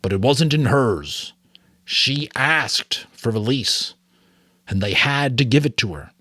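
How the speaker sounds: steady storytelling read to a class; story read aloud. A narrator's reading. Teacher reading the novel aloud to students, in an even storytelling voice. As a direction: read the novel to the class, letting the Giver's lines rise.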